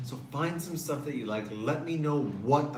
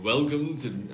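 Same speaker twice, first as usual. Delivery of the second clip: announcer voice. Shown as a demonstration. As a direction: do a butler-style welcome. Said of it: "with a voice".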